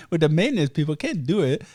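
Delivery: mock Vietnamese accent; imitated agent with a Vietnamese accent; James. Agent gives caller bad news, mock Vietnamese accent. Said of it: "she finally comes back and she's like".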